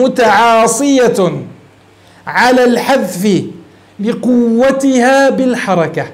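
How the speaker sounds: very slow, word by word: متعاصية, على الحذف, لقوتها بالحركة; teacher relishing a fine phrase, drawn out; slow savoring read. Shown as a demonstration. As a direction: linger over each word of the phrase. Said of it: "انظر عبارة ابن هشام اللطيفة هنا".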